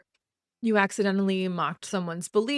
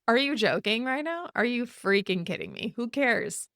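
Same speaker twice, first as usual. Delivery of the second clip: higher, incredulous outburst; real exasperation; 3 semitones higher than usual. Real, not acted. Fed up with excuse-making apologies, exasperated. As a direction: let real annoyance spill out. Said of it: "I almost swore".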